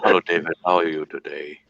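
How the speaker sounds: put-on low Asian-accented impersonation; Asian doctor's accent. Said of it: "doing the voice of my doctor".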